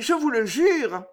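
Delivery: breathy whispered oath; hushed pleading whisper; whispered vow. Acted. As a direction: whisper it to the king. Juliette swears to the king.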